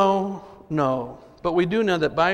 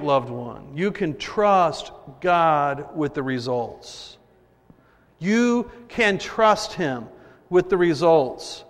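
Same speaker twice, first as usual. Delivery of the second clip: tender and slow; slower than usual. Real, not acted. Tender address to listener.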